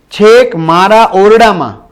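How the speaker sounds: put-on alarmed old man calling slowly. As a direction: stretch it out as a call for help. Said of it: "બૂમો પાડવા માંડી".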